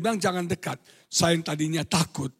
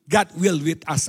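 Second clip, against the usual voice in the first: God will with us, louder, will pressed; stress on will; 4 semitones lower, 5 dB louder than usual. Shown as a demonstration. Preacher teaching tenses, stressing will.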